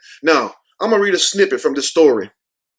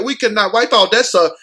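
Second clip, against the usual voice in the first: higher pleading mock stewardess; mock attendants; 5 semitones higher than usual. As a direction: beg like a disgusted attendant. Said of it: "They're like".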